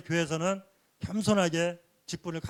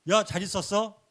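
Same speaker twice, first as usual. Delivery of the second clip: mock over-familiar hello, a touch raised; lightly acted rude familiarity; cheeky casual greeting; 3 semitones higher than usual. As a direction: imitate someone suddenly talking down to an elder. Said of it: "이렇게 함부로 그냥 반말을 막 하더래요".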